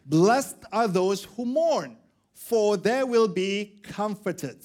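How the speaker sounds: slow, weighty scripture reading; solemn quote. Shown as a demonstration. Preacher quoting Jesus slowly. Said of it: "when Jesus said".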